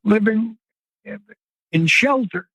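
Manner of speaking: choked up while describing the victims; emotional. Real, not acted. Interviewer hears him get emotional, a nervous laugh breaking through. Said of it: "pardon me, I get emotional".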